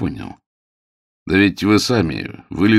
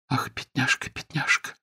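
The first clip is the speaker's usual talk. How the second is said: soft pitying whisper; 7 semitones higher, 7 dB quieter than usual. A narrator's reading. Housekeeper bends over the girl, whispering. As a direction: breathe it over the hurt girl. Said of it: "прошептала она".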